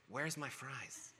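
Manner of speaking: put-on slow, whiny small-child voice through a laugh; whiny little kid. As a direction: whine it like a let-down kid, half laughing. Child voice again, teller laughing.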